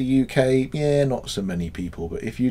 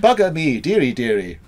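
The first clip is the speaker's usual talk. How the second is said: 1 posh Wiltshire swearing; 3 semitones higher than usual. Retold or imitated. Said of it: "posh Wiltshire ones".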